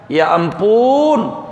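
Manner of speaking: exasperated. Retold or imitated. Acted exasperation, slapping forehead.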